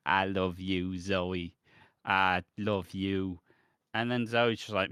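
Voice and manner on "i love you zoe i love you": low, slow doting sigh; mock lovesick murmur. Man gazing at photos on his laptop, mock lovesick and low.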